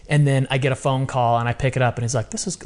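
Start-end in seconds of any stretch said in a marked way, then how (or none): 2.3-2.6 light imitation of a British accent, higher and softer; just a hint of Graham's British accent. Mentor introducing himself on the phone in a British accent. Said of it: "in his British accent".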